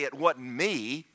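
laughing, whiny denial; hammed-up denial; mock excuse. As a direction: play the guilty kid making excuses. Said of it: "don't yield to it and say".

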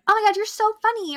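high gushing praise; gushing admirer. Retold or imitated. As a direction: coo it like an adoring fan. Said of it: "it is just like".

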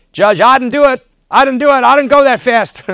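high, loud whiny protest; a high, insistent pleading denial; pleading defendant. Retold or imitated. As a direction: beg the judge, voice up high and loud. Driver pleading with the judge.

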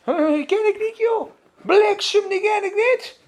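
high-pitched, protesting oath; cursing denial. Retold or imitated. Preacher voicing Petrus denying at the fire, cursing in high-pitched protest. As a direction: imitate a frightened man swearing he's innocent. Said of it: "Met vloeken en zweren".

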